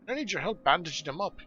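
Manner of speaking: lively dwarf voice appealing for help; brisk dwarf leader recruiting a helper; earnest dwarf quest giver. Acted. Dwarf asking Hurgrim to help bandage the wounded, earnest.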